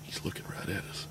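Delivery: tense hushed whisper; whisper, don't spook it; wildlife watching whisper. Real, not acted. Hunters whispering in blind.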